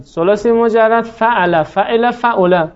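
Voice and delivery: slow, drawn-out فعل with every vowel clear; slow model pronunciation. Shown as a demonstration. Teacher to class, slowly modelling فعل. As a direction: say فعل, فعل slowly so they hear the pattern. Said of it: "teacher models the pattern slowly".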